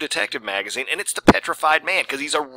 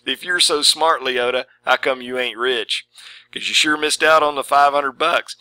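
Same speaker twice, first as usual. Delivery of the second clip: taunt restated. Shown as a demonstration. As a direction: rub it in, needling. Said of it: "pretty darn profound philosophical statement".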